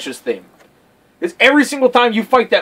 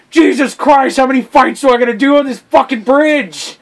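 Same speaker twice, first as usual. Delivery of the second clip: raised, exasperated gamer rant; mock exasperation; 6 semitones higher, 4 dB louder than usual. Player moaning about endless bridge fights, mock exasperated. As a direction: play up the fed-up complaint.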